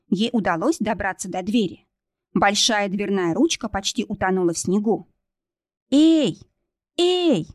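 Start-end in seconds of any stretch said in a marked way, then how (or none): 5.9-7.5 high, loud calls for help; frantic calling. A narrator's reading. Kristina pounds on the chalet door, calling out frantically. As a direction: call out to anyone inside. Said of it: "стучала Кристина".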